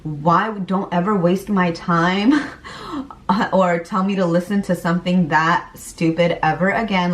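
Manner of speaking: scornful put-down at the husband, lightly acted; sneering at a silly joke, half laughing; mock contempt. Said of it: "I was like".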